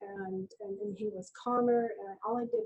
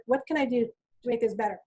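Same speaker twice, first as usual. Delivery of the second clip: louder, detached question from above; a nurse speaking down, not at eye level; disengaged delivery; 5 dB louder than usual. Shown as a demonstration. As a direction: say it without engaging. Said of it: "that is not engaging".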